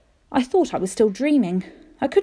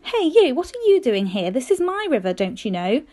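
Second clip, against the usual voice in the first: a hint of a proud egret challenging the boy; egret asking cheekily. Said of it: "It was like he was asking me".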